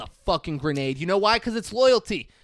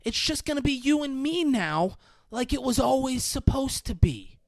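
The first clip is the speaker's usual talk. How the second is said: mock panic; 7 semitones higher than usual. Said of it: "She's panicking and goes".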